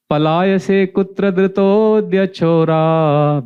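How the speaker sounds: slow, measured Sanskrit chant-like reading; verse recitation. Acted. Devotee recites the Chorashtakam verse, slow measured chant. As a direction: intone the prayer slowly, word by word.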